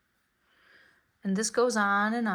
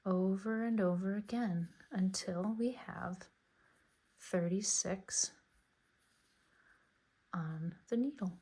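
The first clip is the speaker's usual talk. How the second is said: whisper; 4 dB quieter than usual. Real, not acted. Counting stitches under her breath.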